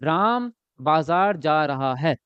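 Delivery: slow, clearly spaced "Ram बाजार जा रहा है"; slow model sentence to copy; slow teacher dictation. Shown as a demonstration. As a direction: dictate each word of "Ram बाजार जा रहा है" slowly for the class to repeat. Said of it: "या मैंने कहा".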